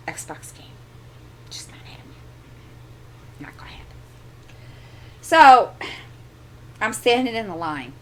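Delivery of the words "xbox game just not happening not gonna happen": hushed unvoiced aside; whisper. Real, not acted. Mom venting about her son, whispered aside. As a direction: whisper it like a secret.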